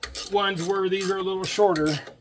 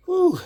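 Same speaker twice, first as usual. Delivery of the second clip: winded whew; 11 semitones higher, 4 dB louder than usual. Real, not acted. Winded after tightening the part.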